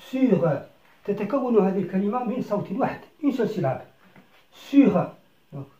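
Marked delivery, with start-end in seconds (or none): 4.5-5.1 Sur said firmly and louder; loud classroom model; loud model word. Shown as a demonstration. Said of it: "teacher models word".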